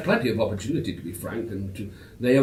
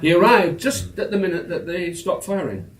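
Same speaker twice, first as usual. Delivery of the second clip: louder, chuckling through the punchline; laughing while telling; 6 semitones higher, 6 dB louder than usual. Real, not acted. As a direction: laugh as you land the joke. Punchline of amused anecdote.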